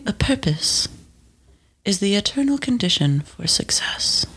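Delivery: hushed, mock-profound reading; solemn reading. Shown as a demonstration. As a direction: read it like ancient wisdom. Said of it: "wanna hear the fortune".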